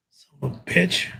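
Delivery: ordinary delivery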